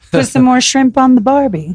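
lightly put-on Australian accent; mock Australian accent. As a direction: toss out a stock Australian-accented line. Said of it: "Okay, that's good".

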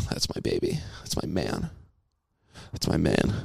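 soft, low doting murmur; fond wife voice. Retold or imitated. Imitating wife praising him softly. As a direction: coo it like a proud wife. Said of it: "she'll be like".

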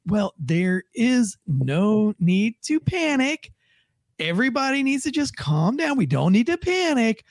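lightly mocked calm-down official tone; calm but ominous official. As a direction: imitate a spokesman soothing while sounding worried. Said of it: "he says it in that tone of voice".

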